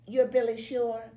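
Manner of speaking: high, excited question; surprised question. A narrator's reading. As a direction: ask it in eager surprise. Girl asks him at locker.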